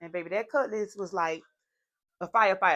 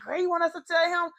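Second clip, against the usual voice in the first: excited squeal; 9 semitones higher, 4 dB louder than usual. Retold or imitated. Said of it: "They like".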